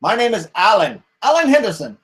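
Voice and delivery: proudly gives his name; villager. Acted. Alan answers the stranger, lightly voiced.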